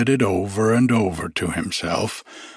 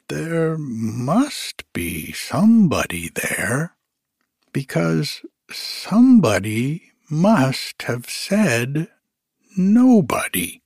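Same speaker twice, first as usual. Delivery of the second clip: slow, higher bear reasoning; Pooh voice; 4 semitones higher than usual. Acted. Pooh thinks to himself, slow puzzled bear voice. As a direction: puzzle it out aloud.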